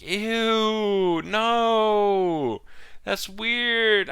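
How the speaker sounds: high, loud grossed-out squeal; disgusted. Real, not acted. Reacting to the creepy teacher twist, grossed-out high squeal. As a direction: recoil from it, voice up high.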